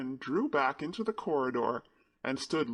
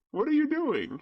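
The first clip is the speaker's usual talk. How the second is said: sudden high startled question, louder; surprised; 12 semitones higher, 5 dB louder than usual. A narrator's reading. Colin hearing Mary speak Yorkshire, startled. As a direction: caught off guard, voice jumping up.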